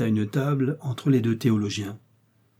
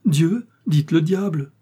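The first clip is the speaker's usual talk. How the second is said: indignant outburst; 7 semitones higher, 8 dB louder, slower than usual. A narrator's reading. Innkeeper protests loudly.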